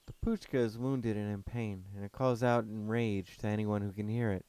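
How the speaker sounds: loud, steady German man; calm but firm forest guardian. Acted.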